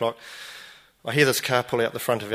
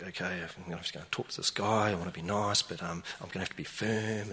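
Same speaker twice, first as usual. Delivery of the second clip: psyching up; 4 semitones lower, 8 dB quieter than usual. Retold or imitated. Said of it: "psyched myself up".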